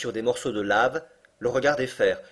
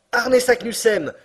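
high, loud, slow triumphant shout; crying out; 11 semitones higher, 8 dB louder than usual. Acted. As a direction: proclaim the name in triumph. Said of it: "s'écria mon oncle". (s'écrier lentement, haut et fort)

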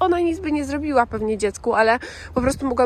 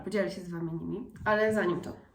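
ordinary delivery

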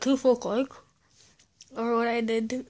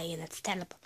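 normal talking voice

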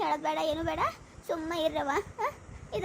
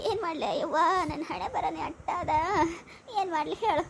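tearful lament.

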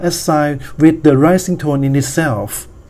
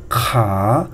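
"Ka" starting low and sweeping up; teacher's demo of a rising "Ka"; 5 semitones lower than usual. Shown as a demonstration. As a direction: lengthen "Ka" with the pitch climbing at the end. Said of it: "rising tone can be scaled".

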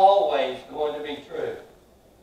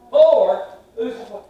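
surprised king; 6 semitones higher, 10 dB louder than usual. Acted. King sees a fourth man.

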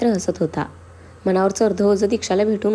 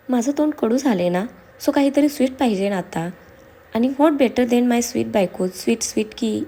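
higher, teasing coaxing, slowing at the end; playfully flirtatious; 3 semitones higher than usual. Acted. Husband pulling wife close for a kiss, flirtatious. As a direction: wheedle sweetly for a treat.

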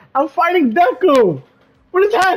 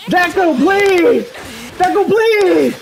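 pleading; 3 semitones higher, slower than usual. Real, not acted. Begging the opponent mid-fight.

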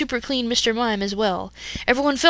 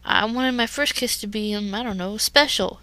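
stumbling nervously. Acted. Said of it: "he stumbled".

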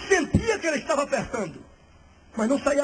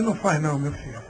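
put-on old pastor; 10 semitones lower, 4 dB quieter than usual. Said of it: "velho, homem de Deus".

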